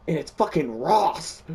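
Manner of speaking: shocked high exclaim. Retold or imitated. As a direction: voice jumps high in disbelief. Shock at Ross with machete.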